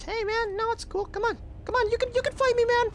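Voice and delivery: squeaky high mock pleading to a foe; high taunting voice. Taunting an enemy in game.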